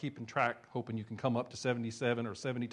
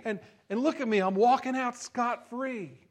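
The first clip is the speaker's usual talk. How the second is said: smug servant; 7 semitones higher than usual. Acted. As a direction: crow about getting away with it. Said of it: "proud of his own sharpness".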